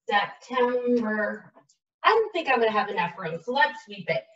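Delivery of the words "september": slow dictation. Shown as a demonstration. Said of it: "writing while saying it".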